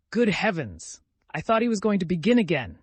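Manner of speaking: high, loud, jittery relief; nervous exclamation. A narrator's reading. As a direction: blurt it out on edge. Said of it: "Grushenka exclaimed nervously".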